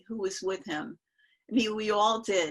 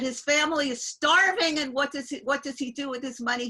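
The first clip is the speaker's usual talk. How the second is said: raised, mildly hammed-up rebuke; retold scolding; 5 semitones higher, 5 dB louder than usual. Guru berating a smoker about his family, retold scolding. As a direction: imitate an indignant guru scolding. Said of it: "he started yelling at him".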